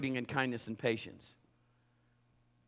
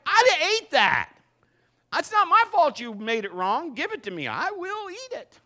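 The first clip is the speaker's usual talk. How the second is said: hammed-up outrage over a thrown-out sandwich; the wronged customer, playing it big; mock indignant outburst; 12 semitones higher, 8 dB louder than usual. Pastor retells his own protest.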